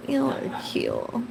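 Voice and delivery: "Y'all" sung out high and slow; playful high sing-song on "Y'all". Shown as a demonstration. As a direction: stretch "Y'all are cool" up high and lingering. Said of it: "They really are cool".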